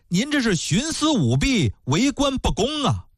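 high, pleading protest to the magistrate; indignant widow. Acted. Widow accuses the magistrate of favoritism, high and indignant.

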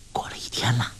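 smiling. A narrator's reading. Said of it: "黄蓉竖起食指笑道".

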